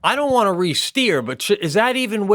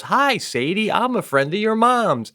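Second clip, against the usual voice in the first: higher, sing-song greeting; lilting video hello; imitated friendly woman; 4 semitones higher than usual. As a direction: lightly mimic a woman greeting a child. Voices woman greeting child in video.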